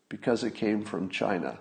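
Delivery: dead serious. Retold or imitated. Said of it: "dead serious".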